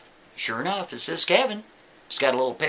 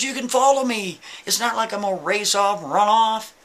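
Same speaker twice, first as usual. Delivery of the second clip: higher pleading voice, begging the cop; pleading Kevin; 5 semitones higher than usual. Retold or imitated. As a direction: beg the officer to believe you. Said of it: "He's pleading with him".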